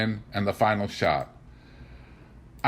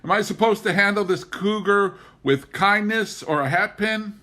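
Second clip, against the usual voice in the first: resentful; 10 semitones higher, 3 dB louder than usual. A narrator's reading. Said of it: "I called after him resentfully".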